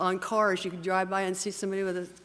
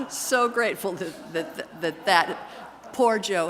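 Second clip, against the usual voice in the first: laughing; 7 dB louder, slower than usual. Real, not acted. Laughing through the Joe joke.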